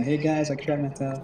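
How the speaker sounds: plain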